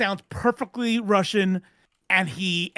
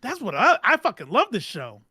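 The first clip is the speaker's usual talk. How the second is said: retold excitement. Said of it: "and I'm thinking".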